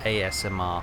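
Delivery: A S M R said carefully, letter by letter; said slowly. Real, not acted. Streamer avoiding getting the letters wrong, saying A S M R slowly. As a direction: spell out A S M R with care. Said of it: "I have to say it slowly".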